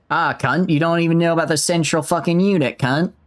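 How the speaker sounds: put-on wobbly amateur Australian accent; attempted Australian accent. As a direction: try for Australian and half lose it. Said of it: "I think I lost it there".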